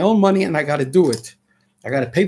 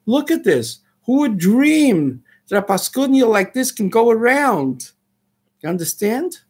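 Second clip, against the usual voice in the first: frustrated; 4 semitones higher than usual. Real, not acted. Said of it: "I'm a little frustrated".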